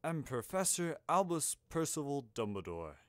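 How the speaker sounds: lightly voiced grandfatherly wizard; a hint of stately grandfather; Dumbledore. A narrator's reading. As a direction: introduce yourself as a grand old man, lightly acted. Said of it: "said the grandfatherly man".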